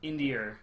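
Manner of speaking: "India" with an R sound on the end; intrusive R. Shown as a demonstration. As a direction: say "India" like "Indi-er". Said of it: "some Americans that do that too".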